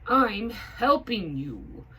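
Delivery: high, loud eager hat voice; high hat insisting. A narrator's reading. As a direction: insist brightly. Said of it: "says Higgins".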